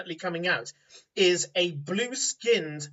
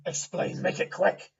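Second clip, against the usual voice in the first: breathy, hushed curt order. Acted. Warrior holding her sword over the farmer, hushed demand. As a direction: hiss it, sword still raised. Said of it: "She goes".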